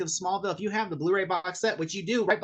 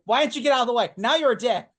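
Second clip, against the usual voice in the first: scolding the screen; 6 semitones higher, 7 dB louder than usual. Retold or imitated.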